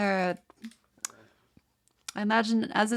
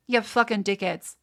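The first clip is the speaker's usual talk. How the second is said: angry insult. Real, not acted. Insulting American companies.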